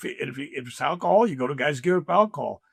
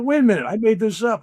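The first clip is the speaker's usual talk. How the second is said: surprised; 8 semitones higher, 6 dB louder than usual. Retold or imitated. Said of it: "And I go".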